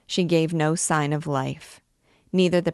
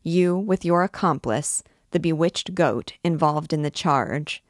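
solemn pronouncement, voice slightly raised. A narrator's reading. President formally charging the gypsy girl, solemn. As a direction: read out the charge with measured solemnity. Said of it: "raising his voice solemnly as he said".

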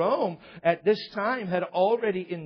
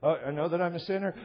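quick mock repeat-after-me recital; rote prayer; faster than usual. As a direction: rattle off the prayer without thought. Kid retold resuming rote prayer.

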